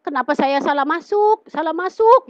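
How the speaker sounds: high, rising retold dismay; frightened lament. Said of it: "karena saya takut".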